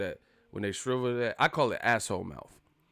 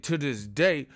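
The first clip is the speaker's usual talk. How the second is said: passionate imitation, building higher and louder; Wilder; 5 semitones higher, 5 dB louder, slower than usual. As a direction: hammer it out with mock fervour. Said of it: "he put some passion in that".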